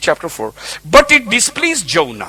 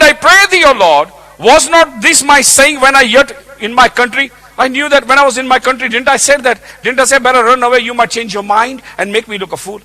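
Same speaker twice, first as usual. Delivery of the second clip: loud, high, indignant complaint to God; angry Jonah; 5 semitones higher, 4 dB louder than usual. Acted. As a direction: protest hotly, like a wronged prophet. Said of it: "You can imagine his anger now".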